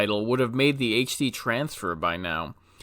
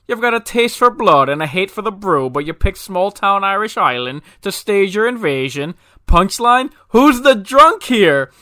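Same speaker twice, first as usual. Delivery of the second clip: barkeep voice; 7 semitones higher, 8 dB louder than usual. Acted. Bar joke, barkeep shouting down the alien invader, high and loud. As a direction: bellow it up high like a fed-up bartender, slowing on the last line.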